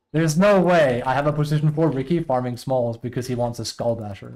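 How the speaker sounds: heated disbelief at a teammate; mad. Real, not acted. Player complaining about Ricky's farming, mad. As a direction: start forceful, venting real frustration. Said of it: "I'm mad right now".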